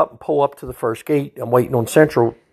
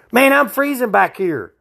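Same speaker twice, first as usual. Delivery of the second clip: higher, pleading trooper trooper; whiny old man; 11 semitones higher than usual. Retold or imitated. Old prisoner in the back begging the trooper to close the windows, high and whiny. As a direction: beg for the windows up.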